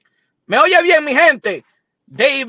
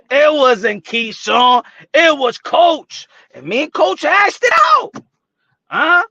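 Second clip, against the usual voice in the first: mock insistence; 3 semitones higher, 4 dB louder, slower than usual. Keeps imitating Teofimo Senior.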